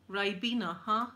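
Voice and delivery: lightly imitated Australian accent. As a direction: mimic an Australian asking a puzzled question. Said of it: "in an Australian accent".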